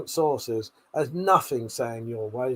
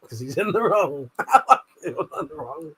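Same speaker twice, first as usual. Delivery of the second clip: sassy laugh. Real, not acted. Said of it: "the speaker gets sassy".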